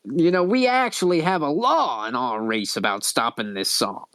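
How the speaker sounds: raspy, earnest explanation; Lady Vera. Acted. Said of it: "really raspy voice".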